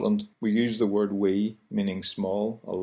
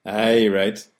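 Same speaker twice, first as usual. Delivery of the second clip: sarcastic. Shown as a demonstration.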